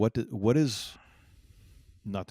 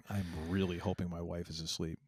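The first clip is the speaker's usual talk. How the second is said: whispering; 3 semitones lower, 5 dB quieter than usual. Real, not acted. Late night, wife asleep.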